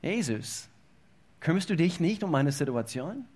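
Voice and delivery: leise, verzagte Frage an Jesus; klagende Frage. Retold or imitated. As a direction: wie ein leises, ratloses Klagen. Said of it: "vielleicht wirst du das Gefühl haben". (fast resignierte, leise Bitte)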